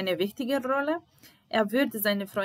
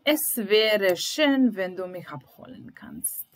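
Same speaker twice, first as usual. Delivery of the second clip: Es wäre schön drawn out slowly, a bit louder; slow demo; 4 dB louder than usual. Shown as a demonstration. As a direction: teach the phrase slowly. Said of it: "Bilo bi lepo da dođeš po mene".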